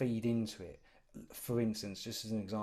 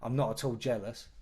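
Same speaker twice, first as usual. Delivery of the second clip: louder, mock-innocent denial; sarcastic; 6 dB louder than usual. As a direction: play it dry and sarcastic. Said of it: "he says sarcastically".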